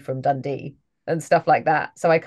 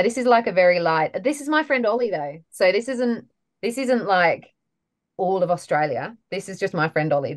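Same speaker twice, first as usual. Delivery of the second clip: a light Australian accent, based on a friend from Sydney; 3 semitones higher than usual. Shown as a demonstration. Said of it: "So what about Australian?".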